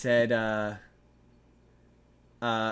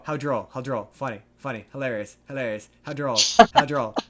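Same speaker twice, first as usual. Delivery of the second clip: a light snooty imitation of smart Beavis and Butthead; lightly hammed-up highbrow deadpan; posh droll imitation; 2 semitones lower than usual. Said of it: "instead of laughing they go".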